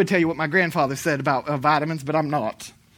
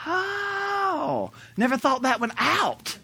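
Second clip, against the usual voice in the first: high, softened, drawn-out "oh"; mock dumbfounded realization; 8 semitones higher, 6 dB quieter, much slower than usual. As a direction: act out a naive realization, pitched high. Retells his dumbfounded realization.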